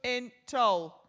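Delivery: "Put wood in toll" said very slowly; slow mock Yorkshire "shut the door"; careful Yorkshire phrase. Shown as a demonstration. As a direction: spell out each word slowly in Yorkshire. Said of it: "let's have another go at that one".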